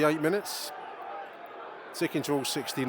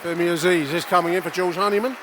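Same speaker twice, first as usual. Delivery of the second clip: a bit louder, brisk match call; lively play-by-play; 3 semitones higher, 5 dB louder than usual. Real, not acted. Commentator announcing a substitution to listeners, lively. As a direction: call the change as it happens.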